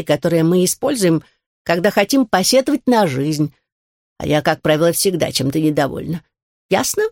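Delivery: put-on stern grumpy old turtle lecturing. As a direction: scold like a cranky elder.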